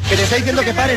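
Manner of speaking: high, insistent order to stop; urgent insistence. Real, not acted. Host halting a couple's on-air fight, urgent. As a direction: press urgently to be heard over them. Host tries to halt quarrel.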